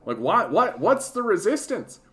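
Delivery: imitating a confused conservative griping; mock conservative voice. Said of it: "conservatives who are like".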